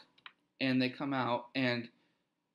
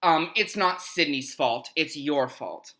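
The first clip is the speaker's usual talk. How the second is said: slow, pointed imitation of blame; mock accusing girl; 3 dB louder, slower than usual. Girl blames the visitors for Sydney, mock accusing. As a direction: lay out the blame slowly, mimicking her. Girl blaming them, acted out.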